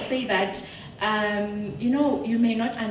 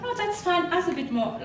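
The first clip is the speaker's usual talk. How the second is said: agreeable negotiators; 9 semitones higher than usual. Retold or imitated. Voices the network's easy agreement.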